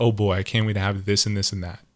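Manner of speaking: normal talking voice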